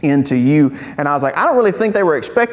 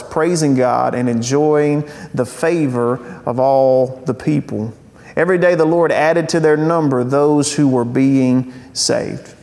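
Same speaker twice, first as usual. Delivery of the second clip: measured, deliberate Bible reading; scripture reading. Acted. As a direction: read the passage out to the congregation, drawing out phrase endings. Reads scripture aloud.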